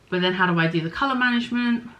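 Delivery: fluff caught in the mouth; talking around fluff on the lips; mouth full. Real, not acted. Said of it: "I've got fluff in my mouth now".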